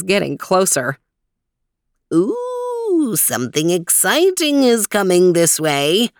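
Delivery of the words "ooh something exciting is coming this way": put-on thrilled old guide spotting something; excited Weezer. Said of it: "It was the Weezer".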